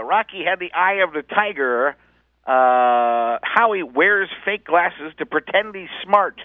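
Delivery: hammed-up slow character read; mock announcer read. Bit quoted on radio, slow put-on announcer voice.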